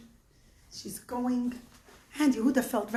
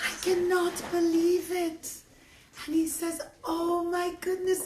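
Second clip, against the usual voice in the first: awed disbelief, pitched higher; stunned, emphatic amazement; shocked; 5 semitones higher than usual. Acted. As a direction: marvel in disbelief. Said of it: "suddenly got shocked".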